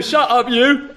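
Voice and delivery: put-on scolding voice; gruff-mannered man. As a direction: cut someone off rudely in character. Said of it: "says the man".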